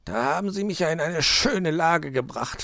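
snipe privately at an accomplice; hissed annoyance. A narrator's reading. Fox blames magpie in her ear, hissing. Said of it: "fauchte der Fuchs Frau Elster ins Ohr".

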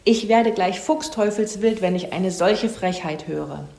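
lightly acted cantankerous scolding; mild squawking rant. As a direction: squabble crossly, with a touch of outrage. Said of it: "Aber sie krakeelte".

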